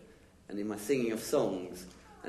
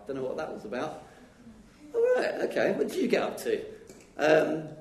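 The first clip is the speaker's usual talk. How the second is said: weekend chat; 3 semitones higher, 4 dB louder than usual. Retold or imitated. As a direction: play both friends chatting. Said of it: "missing opportunity to say".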